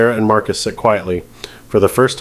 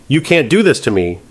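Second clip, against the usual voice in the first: mild mock scream; 4 semitones higher than usual. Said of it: "She's screaming now, really screaming".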